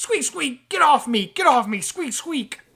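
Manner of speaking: very loud, shrill, squeaky rat creature voice. Voicing a fallen rat telling the players to get off. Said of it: "And then he's like".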